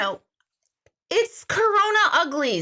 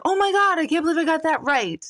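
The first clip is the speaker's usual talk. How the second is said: imitated delight; 5 semitones higher than usual. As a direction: squeal at getting it right.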